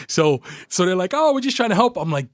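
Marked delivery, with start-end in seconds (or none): 1.1-1.9 high, whiny mock excuse; put-on defensive voice; mimicked protest. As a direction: imitate them pleading, pitched up.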